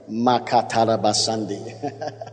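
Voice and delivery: measured syllables of glossolalia; speaking in tongues. Real, not acted. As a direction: break into tongues, slowly.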